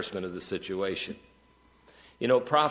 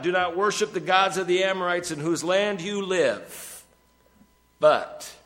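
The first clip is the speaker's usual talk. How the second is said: booming voice of God; 8 semitones higher than usual. Acted. Preacher booming God's words at his congregation. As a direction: thunder the Lord's words down on Israel.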